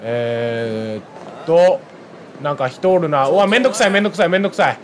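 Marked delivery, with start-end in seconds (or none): 3.3-4.8 fed up, grumbling it over and over; a player annoyed by a street fight; real annoyance. Real, not acted.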